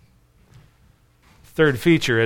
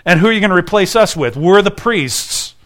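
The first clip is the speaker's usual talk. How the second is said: fast, louder, affronted protest from the priests; indignant temple leaders; 2 semitones higher, 5 dB louder than usual. Retold or imitated. Temple leaders confronting Jesus, indignant and fast. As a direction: bristle like threatened priests defending their turf. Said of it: "they'd be like".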